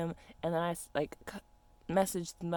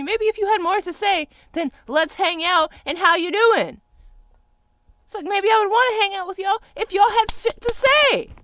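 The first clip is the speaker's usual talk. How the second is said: loud, higher, exasperated yelling; angry shout; 13 semitones higher, 11 dB louder than usual. Real, not acted. Venting at people who only want attention, loud angry. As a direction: shout it out in fed-up anger.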